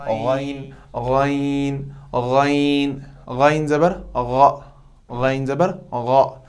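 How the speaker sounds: गैन drawn from the upper throat, without a rasp; गले के ऊपर से गैन; throat letter demo. Shown as a demonstration. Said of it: "जैसे गैन".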